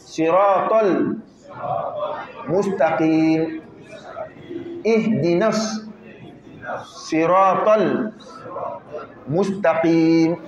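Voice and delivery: each word slow and separate; slow drilled recitation. Shown as a demonstration. Teacher drills the class slowly, word by word. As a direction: spell the verse out word by word for learners. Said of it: "Donc ensemble".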